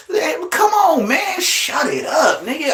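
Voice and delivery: exasperated yell at a rival; fed-up shout. Acted. Yelling at the rival.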